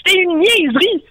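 shout. Acted. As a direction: fling the words out as a cry. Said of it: "puis cria". (cri triomphant, fort et aigu)

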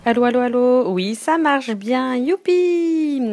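loud cheerful phone greeting; bright and loud, thrilled to be on air; excited. Real, not acted. Caller testing her line, delighted.

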